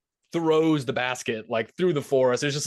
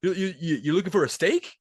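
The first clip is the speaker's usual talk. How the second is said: high, coaxing Santa guessing wants; 7 semitones higher than usual. Retold or imitated. Santa guessing what the penguin wants, high and playful. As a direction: talk up high like Santa quizzing a pet.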